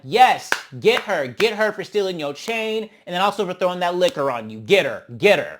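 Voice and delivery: loud, egging on "Get her"; root for her like a ringside fan; mock cheering. Cheering Tavy on.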